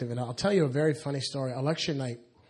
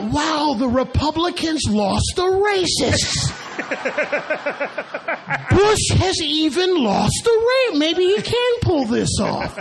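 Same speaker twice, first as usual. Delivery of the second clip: much higher, louder, laughing through the words; laughing disbelief; 13 semitones higher, 7 dB louder, slower than usual. Real, not acted. Telling the audience about the racists, in high laughing disbelief. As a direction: crack up at the absurdity.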